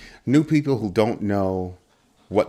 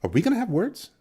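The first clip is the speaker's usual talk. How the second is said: mock threat; 13 semitones higher than usual. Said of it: "repeated with rising pitch".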